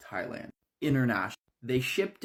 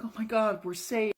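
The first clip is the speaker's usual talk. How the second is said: high, excited burst of relief; relieved cry; 11 semitones higher than usual. Acted. Freed women cry out in high relief. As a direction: gasp it out like rescued captives.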